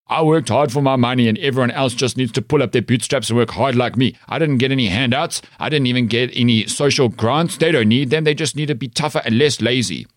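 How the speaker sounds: a lightly put-on white South African dad accent; mildly mock an older white South African dad's accent. Mocking a white dad who brags about hard work, in his white South African accent. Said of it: "And they said it in exactly that accent".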